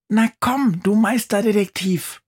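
high, loud squeaky call; mouse calls out. Acted. Mouse yelling at the motionless boy to wake, loud squeak. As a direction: shout him awake in a tiny mouse voice. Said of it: "ruft sie".

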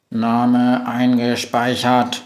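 even robot voice, slow in places; monotone robot. Acted. Robot assistant greeting the witch, monotone. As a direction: speak like a flat machine.

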